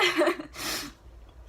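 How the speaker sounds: breathy falling chuckle; amused little laugh. Real, not acted. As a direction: laugh under your breath. Laughs after circus joke.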